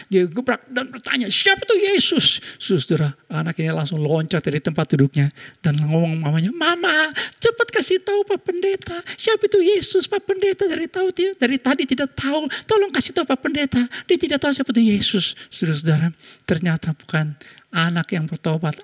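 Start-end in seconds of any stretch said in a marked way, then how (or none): 1.3-2.4 high, slow pounding shout; loudest shout. Retold or imitated. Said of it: "dengan suara yang lebih keras dan paling keras". 6.5-15.4 put-on eager child. Child begging mother to answer.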